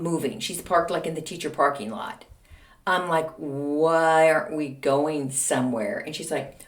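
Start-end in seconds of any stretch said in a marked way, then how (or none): 3.4-6.0 slow retold question, words stretched; drawn-out question. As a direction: ask it slowly, puzzling it out. Retelling her puzzled question to mom.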